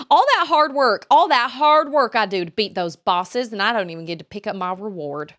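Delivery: loud, high outburst easing off by the end; exasperated wail over wasted effort; loud lament. Real, not acted. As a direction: complain loudly, starting high and settling. Lamenting lost game rewards.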